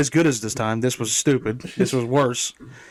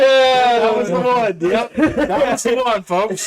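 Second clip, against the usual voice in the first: excited; 9 semitones higher, 4 dB louder, slower than usual. Real, not acted. Excited confirming the article joke.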